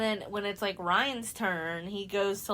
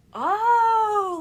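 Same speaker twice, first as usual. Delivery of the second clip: a much higher, loud whooping cheer; 13 semitones higher, 11 dB louder than usual. Retold or imitated. Housemates cheering Lily and Sam's kiss, loud high whoop.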